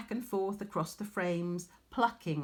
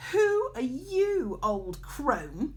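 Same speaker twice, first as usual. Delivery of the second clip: surprised question; 7 semitones higher, 5 dB louder, much slower than usual. A narrator's reading. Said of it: "Arachne exclaimed".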